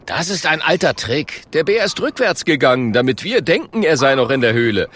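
lightly voiced blustering caveman; brisk, punchy know-it-all; cocky caveman. Klonk explains the bear's trick to the friends, cocky. Caveman boasts, unaware of bear.

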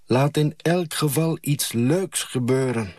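high eager call from the window; girl calling down to the boy, lightly eager. A narrator's reading. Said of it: "hang ik uit het raam en roep".

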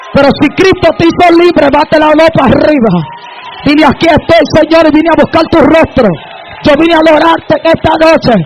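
rally the congregation into praise; full-force preaching. Real, not acted. Preacher calling the people to worship, full-force preaching.

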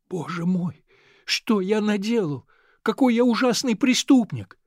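put-on a boy horrified at himself; despairing cry. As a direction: cry out at what you've done. Boy despairing at his deed.

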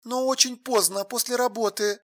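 soft, lifeless woman's voice; colourless. A narrator's reading. Alla warning she will be late, colourless. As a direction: add it quietly, drained of feeling. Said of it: "бесцветно ответила Алла".

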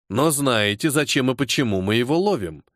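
usual speaking voice

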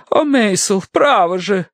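high, pleading lady's voice; exhorting wife. A narrator's reading. Wife exhorts her sceptical husband, pleading. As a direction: reproach him imploringly. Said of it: "принялась увещевать она".

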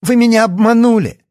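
high, loud accusing shout. Acted. Yana angrily accusing the doctor.

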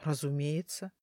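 low, soft, contemptuous snort of a word; scornful creaky voice. A narrator's reading. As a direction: scoff it like a grumpy old spirit. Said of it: "скрипучий голос презрительно фыркнул".

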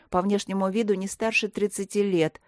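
ordinary delivery, nothing marked

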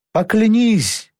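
high, slow roar; roaring plea. A narrator's reading. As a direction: bellow it, drawn out and high. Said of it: "проревел юноша".

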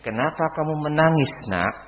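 put-on softened question to a crying child; gentle parent. Shown as a demonstration. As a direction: ask your child gently. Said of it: "Ketika anakmu menangis". (orang tua bertanya lembut kepada anak)

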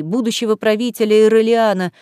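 ordinary delivery, nothing marked

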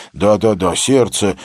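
breathless, frantic repeating; hyperventilating. A narrator's reading. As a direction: gasp it out like a madman. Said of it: "твердил он, как безумный, задыхаясь".

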